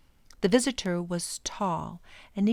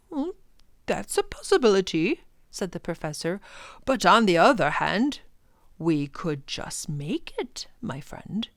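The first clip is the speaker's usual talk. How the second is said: lightly voiced professor; 4 dB louder than usual. Professor answers the Proc.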